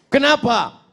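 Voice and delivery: high-pitched mock demand; tuyul's sharp question. Acted tuyul questions the complainer.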